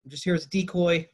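imitating a player calling out; mock yell. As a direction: call across to opponents in a playful mock yell. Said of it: "yells to the Cowboys defense".

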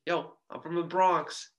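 put-on a light, half-hearted Bronx accent; bad Bronx accent. Host mimicking the Bronx freshman in a half-hearted Bronx accent. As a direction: toss off a weak Bronx accent. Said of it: "I can't do a Bronx accent".

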